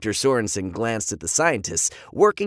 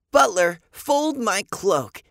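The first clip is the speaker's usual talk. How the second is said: mock British command; 9 semitones higher, slower than usual. A narrator's reading. Kid playing lord to robot.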